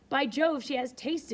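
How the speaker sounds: exclaiming. A narrator's reading. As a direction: relish the news. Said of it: "exclaimed Henry Lynn".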